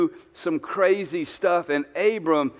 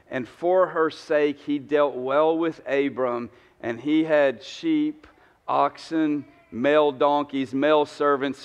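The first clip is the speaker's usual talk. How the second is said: scripture reading; 3 semitones lower than usual. Acted. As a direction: read the passage out evenly to the congregation.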